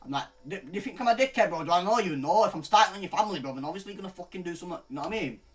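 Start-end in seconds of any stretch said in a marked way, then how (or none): 0.5-4.8 raised, louder, heated comeback; angry retort. Retold or imitated. To the guy on the call, a heated loud retort. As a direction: push back hard like you're squaring up.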